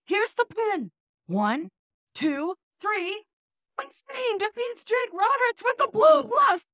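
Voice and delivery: building ringside play-by-play, up to a shout; wrestling commentator. Pretend. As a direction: hype the finish like a ring announcer. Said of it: "in your best wrestling announcer voice".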